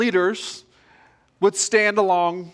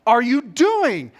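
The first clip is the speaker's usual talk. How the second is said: mock yell; 4 semitones higher, much slower than usual. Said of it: "to yell at Lloyd".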